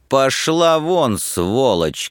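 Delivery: high, drawn-out outburst, only moderately loud; angry cry. A narrator's reading. Student driving the woman away, angry outburst. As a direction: send them away with restrained-volume fury. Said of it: "крикнул Собашников".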